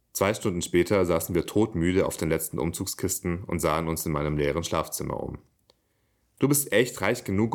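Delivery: even-paced reading with livelier dialogue; measured literary read-aloud; story narration. A narrator's reading. Reads own story aloud.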